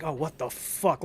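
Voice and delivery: softly exasperated mutter of disbelief. Acted. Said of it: "out of exasperation".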